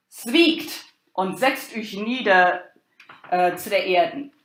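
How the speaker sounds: loud, stately proclamation to the crowd; the expositor hushing the crowd before the play, loud and solemn; declaiming herald. Acted. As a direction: call the whole audience to silence like a town crier. Expositor opens the play reading.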